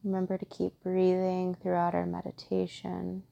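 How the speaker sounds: calm, even meditation guide with long pauses; guided meditation. Acted. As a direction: gently guide listeners inward, steady and unhurried.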